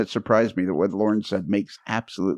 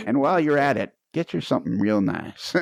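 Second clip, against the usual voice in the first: movie quote; 4 semitones higher than usual. Retold or imitated. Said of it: "Christmas Vacation reference".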